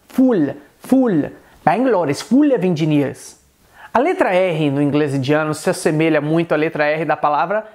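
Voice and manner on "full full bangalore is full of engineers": "full" with a clear Indian L; Indian-accented English example sentence. Shown as a demonstration. Teacher demonstrating the L in Indian English, Indian accent. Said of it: "você pode dizer em inglês indiano".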